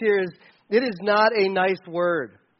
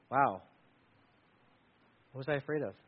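low, quiet amazement; hushed awe; 7 semitones lower, 9 dB quieter, faster than usual. Acted. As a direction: say it softly, awestruck. Awed disciple after the calm.

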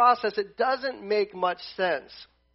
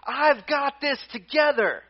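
a hint of a firm God reassuring; lightly voiced God answering complainers, slow; God speaking; 3 semitones higher, slower than usual. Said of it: "And God's going".

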